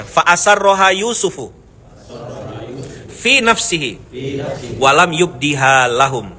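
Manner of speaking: slow, melodic recitation of "Fa asarroha Yusufu"; Quran recitation. Shown as a demonstration. Preacher recites the verse for the congregation, slow and melodic. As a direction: chant the verse slowly. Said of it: "ayo baca ayatnya".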